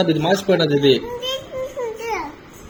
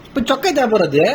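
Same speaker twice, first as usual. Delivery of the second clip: higher, insistent yell; yelling demand; 5 semitones higher than usual. Real, not acted. Child yelling at parent to bring the shirt, insistent yell. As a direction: demand it sharply, pitched up. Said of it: "ఏం ఎందుకు అరుస్తున్నావు ఊరికే?".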